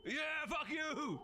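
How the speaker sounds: gloating laugh. Real, not acted. Taunting the killed enemy.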